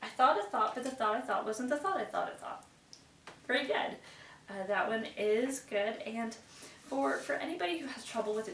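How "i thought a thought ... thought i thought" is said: loud class recital. Shown as a demonstration. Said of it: "let's try it as a class".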